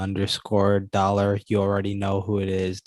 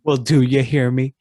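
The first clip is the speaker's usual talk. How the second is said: loud, raised, higher voice; hollering; 4 semitones higher, 7 dB louder than usual. Real, not acted. Host answering the co-host's complaint about hollering, hollering louder. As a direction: holler it to be sure they hear. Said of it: "'Cause you're hollering at me".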